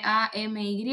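spelled out slowly, letter by letter; deletreando. Shown as a demonstration. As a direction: spell the name out for listeners. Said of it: "se escribe". (deletreando despacio, letra por letra)

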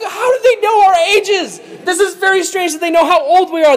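high, loud mock panic; freaked out. Brothers stunned that their ages are known, freaked out. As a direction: blurt it in hammed-up alarm. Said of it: "they're just freaked out".

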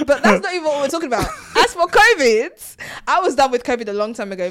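slipping into a Nigerian accent while getting heated. Real, not acted. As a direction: lets her Nigerian accent come out as she gets worked up. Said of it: "Why are you speaking in a Nigerian accent?".

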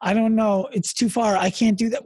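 mock whiny little girl who gives up; imitating a frustrated kid. Dad retells his daughter giving up, mock whiny child voice. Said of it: "when she would get frustrated".

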